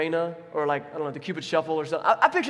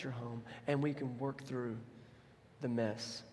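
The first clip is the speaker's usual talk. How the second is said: gentle, fond interruption; God interrupting; 4 dB quieter than usual. Pretend. God cutting off the sinner's speech, tender and fond. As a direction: cut them off kindly. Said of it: "God just rudely interrupts us, and he goes".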